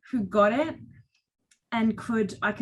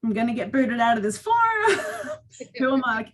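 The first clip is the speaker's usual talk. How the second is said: near tears, laughing nervously; real shaky nervous laughter; 3 semitones higher, 4 dB louder than usual. Real, not acted. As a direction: laugh off the nerves as your voice wobbles. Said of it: "my voice is shaking".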